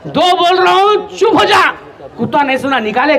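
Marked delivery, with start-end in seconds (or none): 0.1-1.7 slow, high-pitched final warning; mock-angry officer losing patience; hot-tempered colonel. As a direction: stretch the count, then order silence. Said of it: "colonel साहब पहले किराक आदमी".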